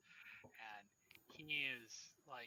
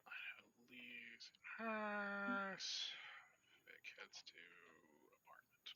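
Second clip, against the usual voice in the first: near-whisper, slow and drawn out; talking to oneself; 7 semitones higher, 6 dB quieter, slower than usual. Real, not acted. Game master noting who goes where, murmured to self. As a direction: trail along under your breath as you jot it down.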